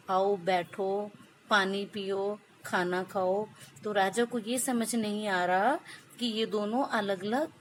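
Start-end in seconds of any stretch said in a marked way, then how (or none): 0.1-3.5 gentle sweet voice. Retold or imitated. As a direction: coax gently like a kind host. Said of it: "एक तोता दूसरा है जो ये कह रहा है".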